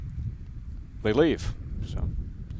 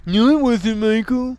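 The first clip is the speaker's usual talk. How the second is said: higher put-on voice snapping back; high mock retort; 7 semitones higher, slower than usual. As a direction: play a petulant accuser, pitched up.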